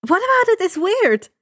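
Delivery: high and loud eager question; excited. A narrator's reading. Annabeth asking the men about her grammar, excited. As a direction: lean in, dying to know. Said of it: "she asks excitedly".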